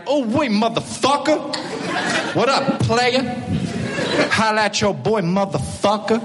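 lightly voiced swaggering gangster greeting. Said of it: "be like".

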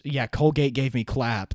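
talking through mouth pain; words slow from a sore mouth; with a sore jaw. Real, not acted. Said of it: "it hurts to talk right now".

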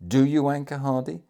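loud, high, insistent command; emphatic, urgent commander; energetic order. A narrator's reading. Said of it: "The energetic manner in which he uttered".

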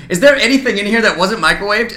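lightly voiced Gordon Ramsay, a touch sharper; imitating Gordon Ramsay. Host retells the Kitchen Nightmares episode, mild Ramsay voice. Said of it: "He goes".

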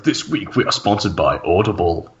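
low dramatic movie trailer read. Shown as a demonstration. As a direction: read it like an epic film trailer. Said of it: "really, really dramatically".

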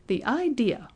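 high, mocking outrage; outraged shout. A narrator's reading. Registrar shouting at Benjamin, high and outraged. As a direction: scoff at the very idea. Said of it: "he shouted".

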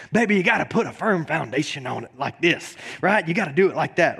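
mock preachy pastor voice, lightly done. Dad lecturing his toddler on foundations, mock preachy. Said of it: "Talking real pastor-like".

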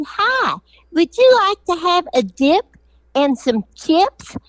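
high bright sales pitch, slowing at the end; chirpy salesman greeting. Retold or imitated. Norman greets plane passengers with a cheery sales pitch. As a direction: play a cheery airport salesman hawking chips. Norman acting as chip seller.

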